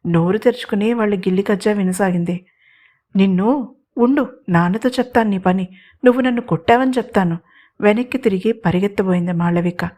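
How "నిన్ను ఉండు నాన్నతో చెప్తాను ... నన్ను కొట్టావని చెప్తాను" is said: sister's sulky tattletale threat, raised pitch, quickening at the end; childish threat. Acted. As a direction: threaten to tell dad like a little sister. Sister threatens brother in squabble. (చెల్లెలి అలక బెదిరింపు)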